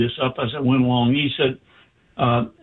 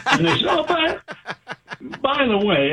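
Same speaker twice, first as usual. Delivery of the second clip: high, laughing through the words; 12 semitones higher than usual. Real, not acted. Telling how the station promoted the brochure, laughing. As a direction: giggle as you set up the punchline.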